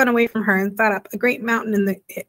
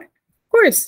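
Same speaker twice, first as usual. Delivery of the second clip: eager; 11 semitones higher, 7 dB louder than usual. Acted. Arrietty eager to show off.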